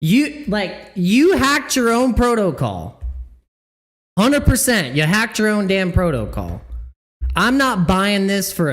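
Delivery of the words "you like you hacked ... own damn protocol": scornful accusation. Real, not acted. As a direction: lean on each word, accusing. Accusing the project.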